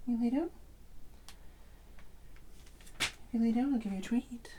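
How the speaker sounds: high, coaxing, hushed promise; bribing. Acted. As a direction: tempt the cat with a treat. Offering cat a treat.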